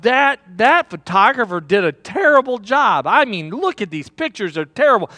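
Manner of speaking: mildly irritated, griping about bad photos; lightly voiced disgruntled customer; a touch of annoyed grumbling. Politician griping over his headshots, mildly annoyed. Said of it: "he thought".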